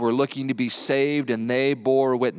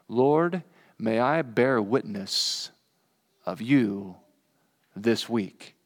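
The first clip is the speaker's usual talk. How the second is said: slow, hushed prayer fading at the end; quiet prayer; 3 semitones lower, much slower than usual. Shown as a demonstration. Pastor models a prayer to keep in the car, soft and slow. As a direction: breathe it out as a soft plea. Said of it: "maybe pray this prayer".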